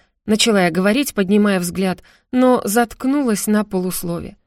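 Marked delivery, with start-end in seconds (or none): none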